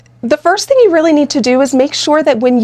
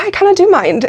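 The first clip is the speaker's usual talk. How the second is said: inner protest; 7 semitones higher than usual. Retold or imitated. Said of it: "if I was feeling like".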